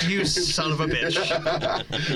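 slow, laughing mock curse; laughing mock insult. Real, not acted. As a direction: swear at him fondly through a laugh. Mic hit eighth time, teasing.

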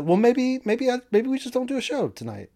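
high, sulky whine; mimicking a sulky host. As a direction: whine about skipping the show. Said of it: "he gave it the".

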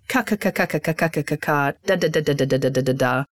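rapid-fire repeated syllables; fast, even articulation drill; machine-gun consonants. Shown as a demonstration. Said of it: "Make it like a machine gun".

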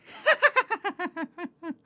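high squeaky cartoon giggle; cartoony laugh. Shown as a demonstration. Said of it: "Like that cartoony thing".

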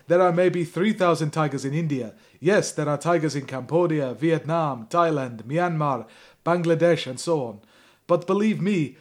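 loud, hammed-up Russian speech; host reads the Russian president's speech in a mock Russian accent. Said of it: "I can't do it after the Russian".

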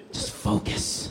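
a hushed whispered focus cue; whispered self talk. Retold or imitated. Telling himself to focus before the throw, whispered. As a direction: whisper it to yourself. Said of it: "I told myself that".

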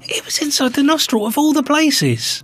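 hushed, conspiratorial whisper. Real, not acted. Telling his cohost about the hidden nostril zit in a whisper. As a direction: breathe it like a grim secret.

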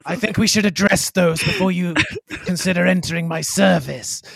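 mock-regal empress voice, laugh breaking in; put-on stately tone; imitated Araxa. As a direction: keep up the royal act while amused. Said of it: "She should be saying".

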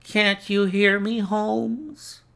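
high, loud, rising question; insistent waking call. A narrator's reading. Visitor rousing the sick man, high insistent shout. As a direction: raise the voice to rouse a sleeper. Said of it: "insistent tone of one who awakens a sleeper".

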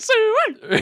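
high hammed-up hick call; mock rural accent. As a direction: hoot it like a woodsman. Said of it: "Who's like".

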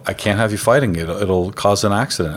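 calm, level retold warning; matter-of-fact, not raising the voice. Dad calmly telling the boys off from the trunk. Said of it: "And I'm saying it so calm".

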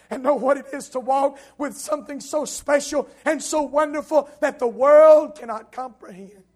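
loud preacher's swell; full-force preaching. Real, not acted. Preacher marvelling at walking with God, full-force preaching. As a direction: build loudly to the end of the phrase.

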